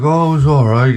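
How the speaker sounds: a hint of the downbeat old maintenance man; lightly voiced weary old coworker; old coworker impression. Old maintenance man answering about Christmas, downbeat impression. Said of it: "he used to talk like this".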